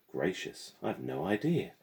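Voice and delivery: high, mock-innocent girl's voice; smug classmate, all fake innocence; smirking. A narrator's reading. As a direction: tease her with false sweetness. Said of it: "Gemma smirked".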